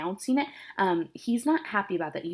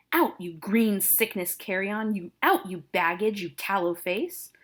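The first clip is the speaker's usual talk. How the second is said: upset father. Acted. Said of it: "Capulet is very upset here".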